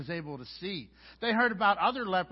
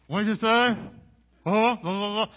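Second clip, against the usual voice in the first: much louder, higher shouted mishearing; mock shout of a deaf clerk; 4 semitones higher, 11 dB louder than usual. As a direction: bellow back like you can't hear.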